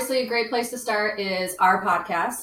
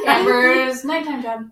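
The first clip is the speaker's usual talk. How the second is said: laughing; 3 semitones higher, 5 dB louder, slower than usual. Real, not acted. Teasing laughter about sexy voice.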